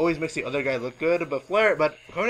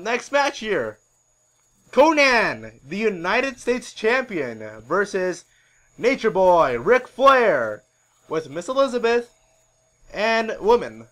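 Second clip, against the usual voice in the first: higher, louder match introduction; ring announcer; 5 semitones higher, 6 dB louder, slower than usual. Acted. Announcing Conan versus Ric Flair to the crowd, ring announcer. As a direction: announce the fighters with a lift on each name.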